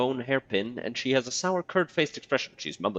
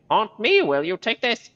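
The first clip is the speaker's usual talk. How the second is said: much higher, shouted crone fury; furious crone; 14 semitones higher, 8 dB louder than usual. Acted. Marta pounding the corpse with her fist, a high furious shout. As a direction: beat it out with every word.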